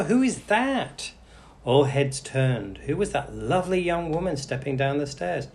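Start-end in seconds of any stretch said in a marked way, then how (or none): 0.0-1.1 wondering guest. A narrator's reading.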